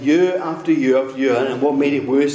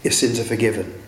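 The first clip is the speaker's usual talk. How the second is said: gentle forgiving Lord; 3 semitones lower than usual. Retold or imitated. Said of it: "the hand of the Lord will come and say".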